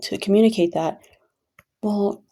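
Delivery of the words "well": imitating a partner's objection, pitched a little higher; mildly mock a controlling partner's complaint. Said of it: "Again, controlling".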